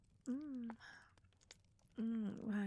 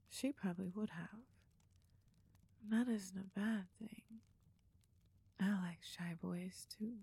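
pillow talk. Acted. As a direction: soothe him gently to sleep. Cuddling after climax.

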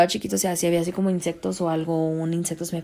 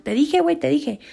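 told you so; 8 semitones higher, 4 dB louder than usual. Retold or imitated. Vindicated telling cousins.

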